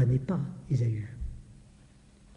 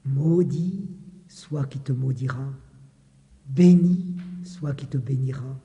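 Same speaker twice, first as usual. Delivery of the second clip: scripture reading. Acted. Reads Isaac's blessing aloud.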